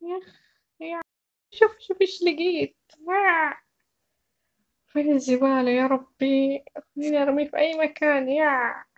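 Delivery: put-on a girl grossed out, hunting for the bin; annoyed young carer. One speaker plays the carer role.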